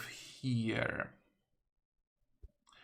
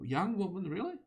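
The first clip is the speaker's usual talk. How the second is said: higher, quicker echo in disbelief; incredulous; 7 semitones higher than usual. Real, not acted. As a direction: question the words you just read, pitch jumping up. Questions what was just read.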